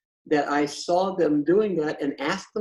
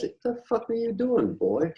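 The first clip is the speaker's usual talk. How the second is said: put-on crusty old dude; 6 semitones higher than usual. Crusty dude confronting the guy who gets by, mock challenge. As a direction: imitate an old crank challenging someone. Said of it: "ugly old crusty dude says".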